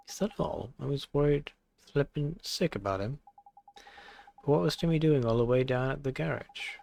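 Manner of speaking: put-on fond old lady voice; motherly shopkeeper. Layla thanking Oliver, fond motherly voice. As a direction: coo at the boy and the cat.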